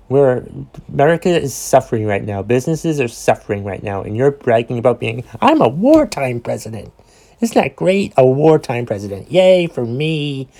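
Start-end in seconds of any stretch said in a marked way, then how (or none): 5.4-10.5 a hint of a boastful president, loosely done; terrible, half-hearted impersonation of a gloating politician; Donald Trump. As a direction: brag in a badly faked presidential voice. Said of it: "that's my Trump impersonation. It's a terrible impersonation".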